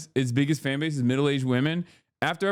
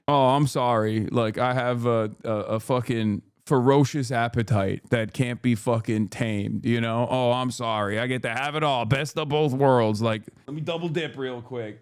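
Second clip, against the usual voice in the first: mocking excuse; 4 semitones lower than usual. Mimics bisexual defenders' excuses.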